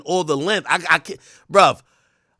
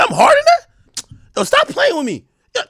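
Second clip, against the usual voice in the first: shocked squeal; 4 dB louder than usual. Retold or imitated. To his girl about his size, a high shocked squeal. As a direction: pitch jumps way up in outraged disbelief. Acting out outraged disbelief.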